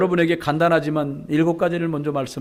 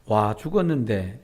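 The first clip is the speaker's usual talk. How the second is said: Gyeongsang grandma; 6 semitones lower, slower than usual. Retold or imitated. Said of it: "다른 할머니가 하는 말이".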